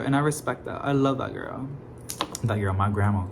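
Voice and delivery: normal talking voice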